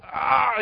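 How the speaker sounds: high pained "ah", restrained in volume; reenacted yelp of pain; pained cry. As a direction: cry out as if a finger got slammed. Reenacts pain of slammed finger.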